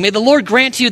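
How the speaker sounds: high, lilting start of a blessing; a hint of a solemn blessing cut short; mock blessing. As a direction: begin like a formal blessing, then break off. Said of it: "starts off kind of saying this blessing".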